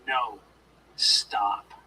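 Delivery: each word placed separately; firm command. Shown as a demonstration. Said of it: "and going".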